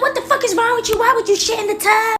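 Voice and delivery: high disgusted squeal; outraged sister. Retold or imitated. Sister scolds Emily, high disgusted. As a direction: scold it like a horrified sibling. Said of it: "And she's like".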